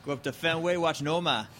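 mock Boston accent. Joking about going to the ballpark, Boston accent. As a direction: say it like a Boston local. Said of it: "a Boston accent".

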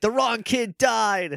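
deadpan Doggy. Retold or imitated. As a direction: drop it slowly as a dry joke. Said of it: "Doggy's like".

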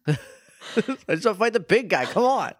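mimicking Sora, pleading for the big fight; mock whiny Sora. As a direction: whine it like a kid desperate to fight. Mocks Sora's whining.

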